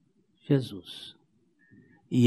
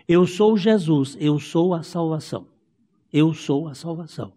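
preaching refrain. Acted. Preacher repeats the divine name.

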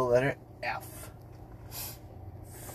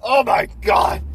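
mock shock; 11 semitones higher, 9 dB louder than usual. Repeats shocked exclamation.

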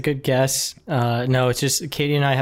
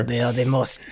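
put-on lightly French-sounding German accent; botched German accent. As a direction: attempt German, slip toward French. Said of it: "I'm doing a French accent for a German guy".

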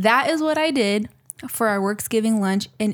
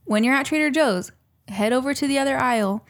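mock serious instructions; 3 semitones higher than usual. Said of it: "listen to me very carefully".

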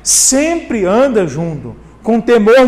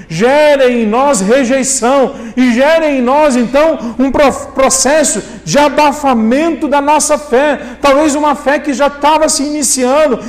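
higher-pitched, emphatic preaching; pregação enérgica; 3 semitones higher, 3 dB louder than usual. Real, not acted. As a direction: press each point home from the pulpit. Preaches at full force. (pregação enfática, em tom elevado)

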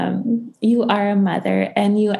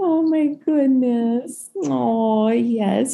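deeply moved; 3 semitones higher, much slower than usual. Real, not acted. Both moved to tears.

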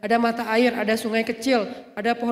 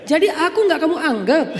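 hammed-up hurt wife, louder; mock sinetron wife, laughing; soap opera wife; 5 semitones higher, 4 dB louder than usual. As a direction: overplay the offended wife.

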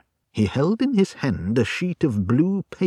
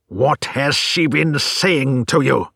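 furious scream; 3 semitones higher, 5 dB louder than usual. Acted. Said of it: "screamed the old man furiously".

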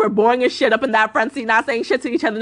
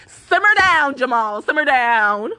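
drawn-out calm-down; slower than usual. Retold or imitated. Retold telling friend to calm down.

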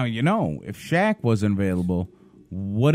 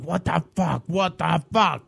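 mock angry complaint; 7 semitones higher than usual. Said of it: "I was bitching".

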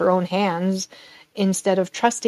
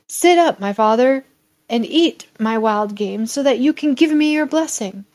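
a lightly voiced eager son, raised; 3 semitones higher, 4 dB louder than usual. Esau bringing the meal to his father, lightly voiced eagerness. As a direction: coax the old father up.

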